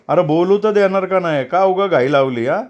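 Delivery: flaring up. A narrator's reading. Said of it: "Sukhdev खवळून बोलला".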